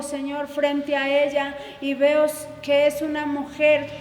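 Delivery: ordinary delivery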